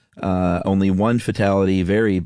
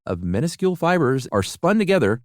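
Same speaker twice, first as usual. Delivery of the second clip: lively, polished host-read commercial; podcast ad read; 5 semitones higher than usual. Acted. Host tells everybody about a laundry product, upbeat ad read. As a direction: pitch the product to listeners with upbeat emphasis. Reads a sponsor ad.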